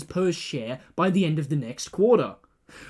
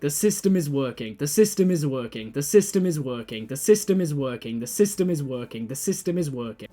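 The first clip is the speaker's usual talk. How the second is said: hypnotic mantra; 2 semitones lower than usual. Acted. Anchor reassuring viewers, droning repeated mantra.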